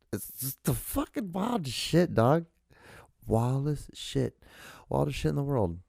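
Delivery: high, disbelieving exclamation; incredulous. Real, not acted. Reacting to his own childhood story, high disbelief. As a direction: marvel at how wild it was.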